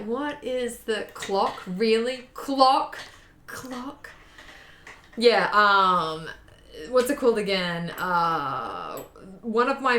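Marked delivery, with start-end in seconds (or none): 0.1-4.1 incredulous. Retold or imitated. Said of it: "I'm just kinda like".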